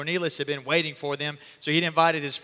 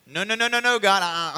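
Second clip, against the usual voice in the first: loud protest; 4 semitones higher, 7 dB louder than usual. Acted. Peter refusing God in vision.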